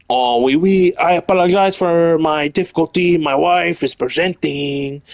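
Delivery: bad French accent read with a few oui oui. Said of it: "I can't do a French accent".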